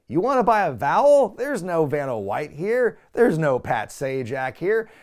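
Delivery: host teasing a starstruck contestant, mocking and loud; mocking Bob Barker. Bob mocks the vowel request, loud and incredulous.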